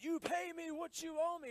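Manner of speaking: loud, high mock threat; hammed-up bully demanding his money; rough demand. Forgiven servant shaking down a debtor, loud mock demand. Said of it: "getting really rough with him".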